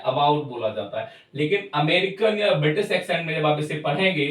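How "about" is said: about in an Indian accent, first a audible; Indian-English about, lower, opening on a clear "a". Shown as a demonstration. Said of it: "Indian accent में आ का sound थोड़ा सुनाई देता है".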